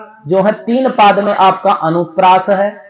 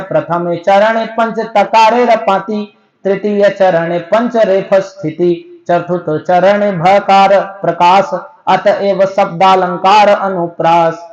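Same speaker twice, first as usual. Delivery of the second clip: slow, measured chanting of a Sanskrit verse; slow, measured chant that lays each line of the verse out separately; verse recitation; slower than usual. Acted. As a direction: recite each line like a teacher reading scripture.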